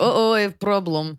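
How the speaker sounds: imitating a light Russian accent; mock Russian-accented uh-oh; fake Russian accent. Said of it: "she faked a Russian accent".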